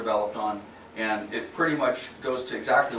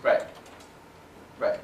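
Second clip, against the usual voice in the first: talking while chewing gum; words round a wad of gum; 3 dB quieter than usual. Real, not acted. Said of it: "I can't talk and chew gum at the same time".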